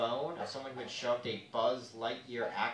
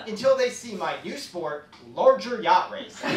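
high, loud posh-boast voice; hammed-up rich boaster; mock rich braggart; 6 semitones higher, 8 dB louder than usual. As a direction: brag like a rich yachtsman.

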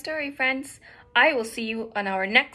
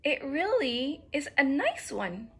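lightly voiced, higher-pitched bird; apologetic little bird; 5 semitones higher than usual. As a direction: explain innocently in a slightly higher voice. Bluebird explains in little voice.

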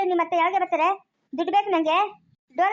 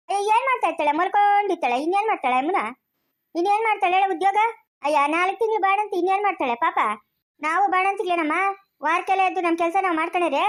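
raised, biting sarcasm; scornful retort. Acted. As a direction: fire back mockingly at the visitor. Stepmother sneers at visiting neighbour.

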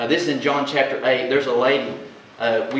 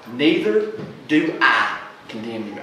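gently forgiving Jesus; tender quote; 2 semitones lower, slower than usual. Acted. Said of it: "resonate loud and clear in your heart".

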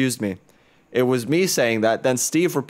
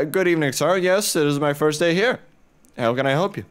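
a lightly voiced eager new clerk, higher; hint of a polite servant greeting a customer; 4 semitones higher, faster than usual. Gamer voicing the new laundromat clerk greeting him, lightly put-on.

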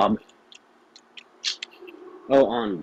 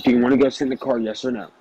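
retold annoyed demand; 3 semitones lower, faster than usual. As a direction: press the question, imitating someone fed up. Retelling the angry repeated demand.

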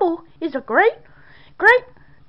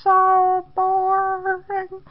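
bored drawl; much slower than usual. Acted. Repeats the bored complaint.

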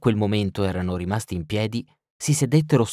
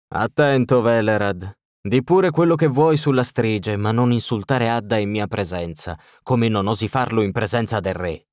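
hissed warning. Acted. Nobleman warns the burgomaster not to insult Adda, hissing. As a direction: warn him with a hiss through his teeth. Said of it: "sibilò Ostrit".

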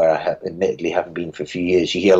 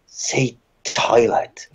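imitating Alabama fans; 2 semitones higher, much slower than usual. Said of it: "these five people just around me going".

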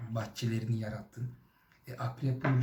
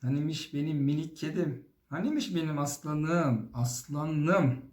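playful cooing with rising-falling lilt; fond coochy-coo voice; doting baby talk; 2 semitones higher than usual. Pretend. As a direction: coo pet names as to a little kitten. Cooing pet names as to a baby.

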